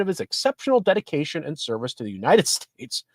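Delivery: real laugh slipping into a formal read; can't say it without laughing. Real, not acted. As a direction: laugh breaking into the last words. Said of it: "I can't say that without laughing".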